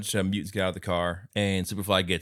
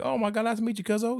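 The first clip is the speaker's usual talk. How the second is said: excited mock greeting; 13 semitones higher, faster than usual.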